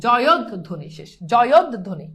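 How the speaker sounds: জয়দ ধ্বনি split as "joyod... dhoni"; deliberate teaching pronunciation of জয়দ ধ্বনি; syllable-by-syllable demo. Shown as a demonstration. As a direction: hold the d of জয়দ before releasing ধ্বনি. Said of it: "ধ্বনি উচ্চারণটা আমরা আগেই শিখছি".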